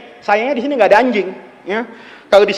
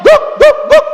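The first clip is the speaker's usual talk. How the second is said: imitated barking; 4 dB louder than usual. Repeats the dog's three barks.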